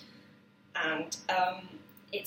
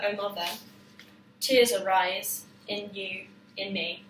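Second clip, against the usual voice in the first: reading lyrics aloud. Shown as a demonstration. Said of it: "I'll read them aloud first".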